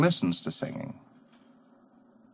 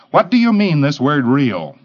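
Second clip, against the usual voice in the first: argumentative pre-clear; 5 dB louder than usual. Retold or imitated. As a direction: lightly play the quibbling pre-clear, pushing back.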